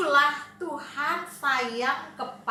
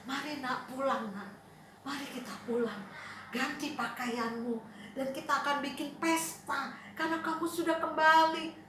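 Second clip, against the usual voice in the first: softer, tender father; gentle father; 3 semitones lower, 6 dB quieter than usual. Acted. Father tenderly inviting his son home for a feast. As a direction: kindly call him home.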